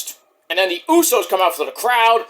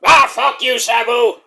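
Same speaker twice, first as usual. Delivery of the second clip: mock angry yell at Sabu; 4 semitones higher, 4 dB louder than usual. Terry voice yelling at Sabu.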